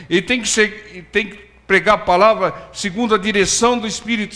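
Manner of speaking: a pastor driving the point home to the church; fiery preaching. Acted. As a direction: preach it with fire. Preaching at full force.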